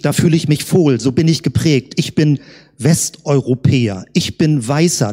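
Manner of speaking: ordinary talk, nothing marked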